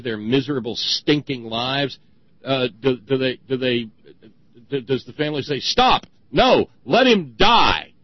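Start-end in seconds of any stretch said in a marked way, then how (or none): 5.6-7.9 high, loud cry of protest; mock outcry. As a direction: shout it like a family stopping the surgeon. Acts out family's imagined protest.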